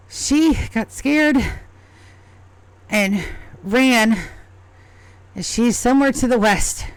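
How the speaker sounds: a small goblin begging for help; a lightly voiced worried goblin asking for its lost cat; pleading goblin.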